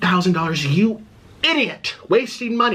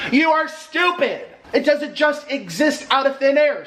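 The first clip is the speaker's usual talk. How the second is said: exasperated; 7 semitones higher than usual. Real, not acted. Exasperated insult.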